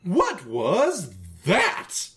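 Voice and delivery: high, startled call from the stern; Caligula calling out. Acted. Caligula calls out to the intruders, high and startled. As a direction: bellow it from the back of the boat.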